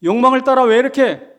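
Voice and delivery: loud, high scolding like a grandfather. Retold or imitated. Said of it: "야단을 치고 꾸짖는".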